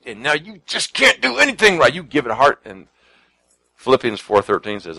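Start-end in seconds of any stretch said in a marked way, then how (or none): 0.1-1.9 mock critical voice. Mocking the perfectionist's critical voice.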